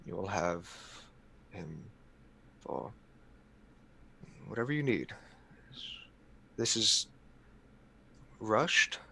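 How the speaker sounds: soft, halting appeal to a superior; quiet, hesitant diplomacy with long pauses; careful entreaty. Acted. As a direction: choose each word carefully, voice held down. Player pleads with the prince.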